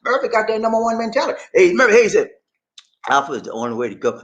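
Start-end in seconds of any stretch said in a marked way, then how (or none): 3.1-4.2 quoting while laughing; a quoted line with laughter; laughing quote. Retold or imitated.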